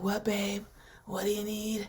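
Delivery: sexy phlegmy edgy voice. Recounting a voice once used to feel edgy, the speaker does the sexy phlegm voice. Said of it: "I felt so cool with my little edgy voice".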